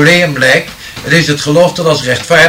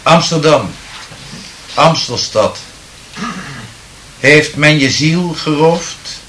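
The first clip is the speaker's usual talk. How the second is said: poem recital. Acted. Medium improvising a poem from the audience's words, declaiming solemnly. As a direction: recite the verse with rising solemn fervour, then let it fade.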